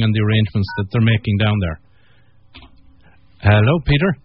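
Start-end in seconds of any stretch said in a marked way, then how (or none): 3.4-4.2 calling out. Real, not acted. Calling caller on dead line.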